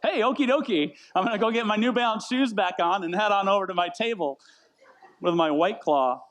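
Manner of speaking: earnest, unsarcastic. Retold or imitated. Customer cheerfully replying to the food truck guy, earnest and unsarcastic. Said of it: "with all seriousness, not, like, sarcastically".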